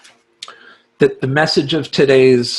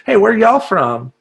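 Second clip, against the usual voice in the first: high-pitched, put-on New Orleans greeting; New Orleans accent; 7 semitones higher than usual. Gallery seller blending in with customers, affected New Orleans accent. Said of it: "Like, I talk like that".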